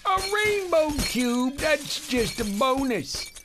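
a hint of a creaky old man. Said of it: "that was the old man".

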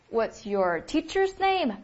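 slow, clear repeat of the question. Shown as a demonstration. Teacher repeats the question slowly for students to copy. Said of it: "应该怎么问".

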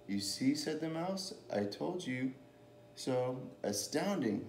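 animated picture-book storytelling; lilting story read, with lively character lines; reading to children. A narrator's reading. Reader telling children about a mouse and a Gruffalo, storytelling.

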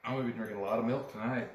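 muffled behind cloth; talking into a towel; through a towel. Real, not acted. Seen 1: Red towel held pressed over mouth and nose while speaking.

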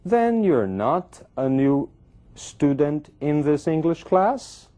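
"Then you're not" high and slow, as a doubtful question. Acted. Student questioning whether the other is new in class, doubtful. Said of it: "um tom de dúvida que ela dá".

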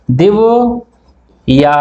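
దివ్య said as దివు then యా; split syllables. Shown as a demonstration. Teacher showing pupils how దివ్య splits. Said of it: "ఇలా పలుకుతాం".

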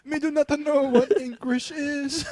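mock broken speech.

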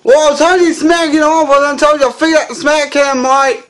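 high, loud yelling mock outrage; shocked shout. Russell Crowe yelling at the prankster, loud mock outrage. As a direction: yell at the guy who just smacked you. Smack cam victim reacts loudly.

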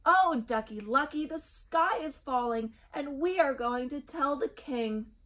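high, loud and frantic; panicky Chicken Little. A narrator's reading. Little chick warns everyone, high and panicked. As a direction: cry the news in alarm.

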